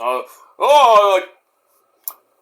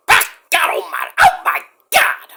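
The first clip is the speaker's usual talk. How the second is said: announcer cry; 9 semitones higher than usual. Retold or imitated. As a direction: stretch the call out in awe. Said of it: "I'm like".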